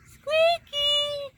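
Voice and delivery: very high, loud shout; shouting for the cat at dusk; yelling for cat. Real, not acted. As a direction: yell the cat's name as loud as you can. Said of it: "Sorry, guys, for yelling".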